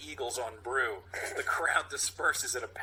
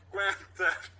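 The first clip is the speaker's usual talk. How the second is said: first tentative try; unsure accusation; hesitant cop voice; 8 semitones higher than usual. Acted. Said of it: "Pauses, then more reassured".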